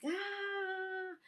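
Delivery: long, high-pitched mock yell; imitated battle cry. Boy runs after bad guys who have his mom, imitated battle cry. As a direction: mimic a charging boy's drawn-out "ah".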